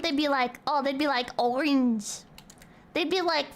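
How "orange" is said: exaggerated British "orange"; mock British. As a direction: say it like a mocked Brit. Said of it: "if it was the fucking British naming".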